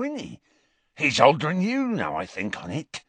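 slurring, sneering country drunk, lightly voiced; lightly voiced rough drunk uncle; drunken Morphin. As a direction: mutter like a dazed spiteful drunk.

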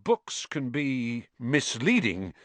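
slow, delicate and careful; delicately. Acted. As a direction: ease the truth out gently. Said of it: "said Lockhart delicately".

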